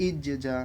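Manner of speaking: "ইজ জা" with a slight echo after "ইজ"; qalqalah echo. Shown as a demonstration. Teacher modelling it after the rule, "ইজ" echoed before "জা". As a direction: bounce off "ইজ", then say "জা" separately. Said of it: "একটু ইকো করে পড়তে হবে".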